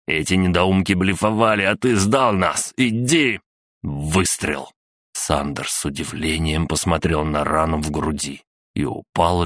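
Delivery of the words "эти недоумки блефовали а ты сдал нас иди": scolding rising to a high command; angry scolding. Acted. Father blames son for betraying them, angry scolding. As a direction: build to a sharp high order.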